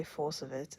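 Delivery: imitated weird accent on Folsovitz; name put on in an odd accent. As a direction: say Folsovitz slowly in a borrowed accent. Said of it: "a weird accent".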